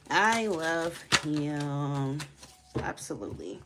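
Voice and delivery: stretched out slowly; slow swoon. Real, not acted. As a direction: drag it out dreamily. Drawn-out swoon.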